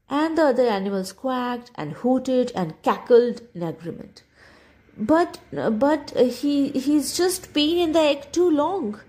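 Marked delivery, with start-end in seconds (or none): 5.0-9.0 nervous stammer, a touch higher; stuttering. Acted. Mother duck flusteredly defends her duckling, stammering. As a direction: stumble over the start, flustered. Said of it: "the mother duck stuttered".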